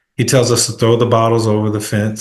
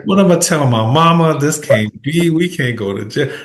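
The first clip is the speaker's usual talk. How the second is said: mock panic; 4 semitones higher than usual. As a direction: act out the panic about telling mama. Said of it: "I'm freaking out 'cause I'm like".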